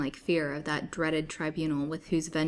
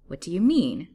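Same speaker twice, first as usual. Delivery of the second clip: louder, with a touch of alarm; fearful question; 8 dB louder than usual. A narrator's reading. Captive questions her suitor's threat, fearful. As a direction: ask with rising dread. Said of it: "a thrill of indefinable fear".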